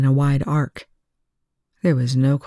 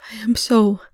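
whispered; 6 semitones higher than usual. Acted. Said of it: "Chloe whispered, her voice barely audible".

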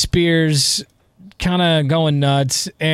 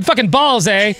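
put-on Canadian accent, higher, tacked-on eh; mock Canadian accent; 5 semitones higher, 3 dB louder than usual. Host jokes a singer sounds Canadian, mock Canadian accent. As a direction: imitate her as a Canadian with a lilting eh. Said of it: "Is she Canadian?".

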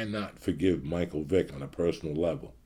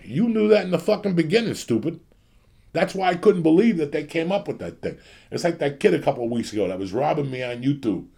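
loud, higher angry shouting; furious rant; 7 semitones higher, 7 dB louder than usual. Real, not acted. Host yelling at listeners and a copycat, furious and loud. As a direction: blow up at them, yelling.

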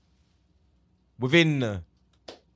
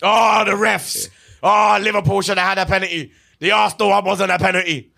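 mock complaint. Mocking fans' complaints.

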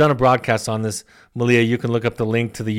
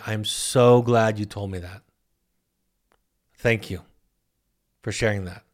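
warm thanks; 2 semitones lower than usual. Acted. Models a therapist thanking a client.

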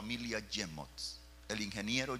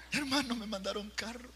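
high, thrilled announcement; excited retelling; 12 semitones higher than usual. Retold or imitated. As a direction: say it as if bursting with the news. Yo le leía la carta.

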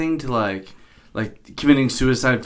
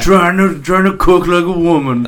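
mock astonishment; 4 semitones higher than usual. Mocking a man-cooks-dinner film scene, mock astonishment. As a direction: play up fake amazement at a clumsy cook.

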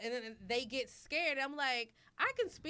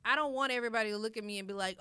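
rushed; 2 semitones lower, faster than usual. Real, not acted. Quick run into quote.

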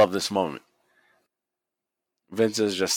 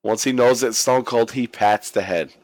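normal talking voice

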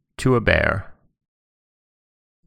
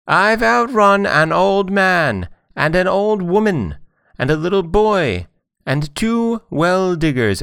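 screamed out; 11 semitones higher than usual. A narrator's reading. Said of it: "screamed out".

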